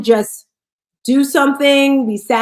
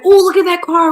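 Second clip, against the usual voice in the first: admiring mom; 7 semitones higher, 4 dB louder than usual. Retold or imitated. Retold mom admiring a car.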